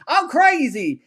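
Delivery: high cartoonish Southern drawl; mock Southern accent. Host parodying villain's Southern accent, pitched high. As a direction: play it like a campy Southern madman. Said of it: "that proper Southern accent".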